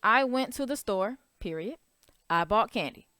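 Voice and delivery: I went to the store then a clear break at "period"; pause at period. Shown as a demonstration. Teacher reading two short sentences with a full stop. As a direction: stop hard at "period" before "I bought candy". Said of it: "That's two sentences".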